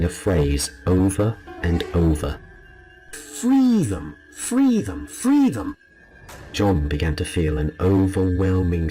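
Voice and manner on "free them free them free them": high, haunted woman chanting; eerie repeated plea. Acted. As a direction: plead it over and over, as if possessed. Woman repeats the phrase incoherently.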